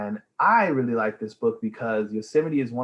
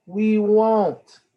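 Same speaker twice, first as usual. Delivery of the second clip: dad reassuring; 10 semitones higher, 8 dB louder than usual. Acted.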